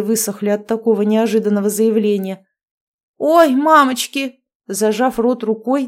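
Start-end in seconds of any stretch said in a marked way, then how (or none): 3.2-4.4 higher, louder, slow aghast cry; horrified gasp. A narrator's reading. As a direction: recoil in shock at the sight. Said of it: "с ужасом смотрела". (испуганно, с ужасом ахнуть)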